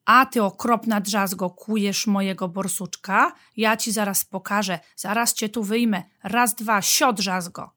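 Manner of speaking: playful telling-off of a splinter; mild pretend threat, punched at the start; mock scolding. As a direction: scold it lightly to amuse a child.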